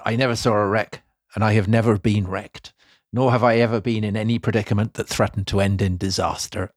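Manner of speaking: lightly voiced pirate captain; a measured quote with a hint of pirate accent. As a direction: put on a mild pirate burr. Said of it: "he didn't speak like that 'cause he wasn't a pirate".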